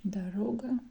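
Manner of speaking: Дорога with the first O said as A, stress on the second; Дорога said darOga; unstressed O as A. Shown as a demonstration. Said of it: "first one is not stressed".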